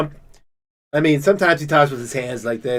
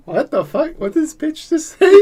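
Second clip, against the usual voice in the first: laughing Trump quote; 12 semitones higher than usual. Retold or imitated. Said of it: "Trump, like, looks at her like".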